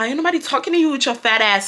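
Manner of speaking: imitated Hispanic boy's dismissive accent. Brian insulting the girl back, in a Hispanic accent. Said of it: "y'all know them Hispanic accents".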